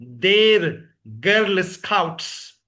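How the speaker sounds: slow "देर गर्ल स्काउट्स", "देर" as in Urdu; model pronunciation. Shown as a demonstration. Teacher models they're for a pupil, slow one-syllable "देर". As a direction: stretch "देर", clear ts ending on "स्काउट्स". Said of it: "बिल्कुल वैसे pronounce करते हैं".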